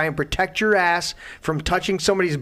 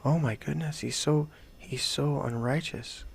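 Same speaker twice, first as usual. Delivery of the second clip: scandalised churchgoer; 8 dB quieter than usual. Retold or imitated. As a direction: gasp it out like a prim churchgoer. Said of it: "they go".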